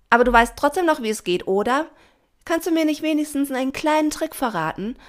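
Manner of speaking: high, loud, eager babble; hurried chattering. A narrator's reading. Pina begs Doña Rosa for a trick, chattering eagerly. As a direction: prattle on before she can leave. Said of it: "plapperte Pina schnell weiter".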